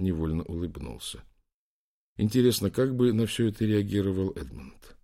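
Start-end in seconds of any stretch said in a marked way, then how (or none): none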